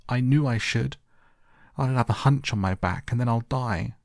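put-on high-pitched, despairing boy's lament; choked wailing. A narrator's reading. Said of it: "sobbed and wailed".

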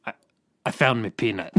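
silly mock pirate impression; put-on film pirate, about to crack up; Jack Sparrow. Co-host offering another film quote, comic pirate voice. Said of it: "I'll do my Jack Sparrow impression".

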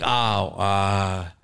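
mock a reluctant, casual admission; sheepish excuse. Comic imitates his writing partner ducking work, sheepish and low.

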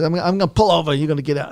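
mildly heated ultimatum; angry. Retold or imitated. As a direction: imitate an irate coach's threat. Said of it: "he was so angry".

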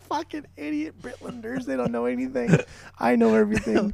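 high mock Kiwi accent, smug; smug mock New Zealander mocking the British. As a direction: sneer at the Brits in a hammed-up New Zealand accent. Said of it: "that last accent was more Australian".

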